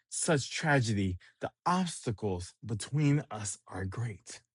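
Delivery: a hint of a swooning romantic pining for a lady; lovesick Sanji. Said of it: "here he goes".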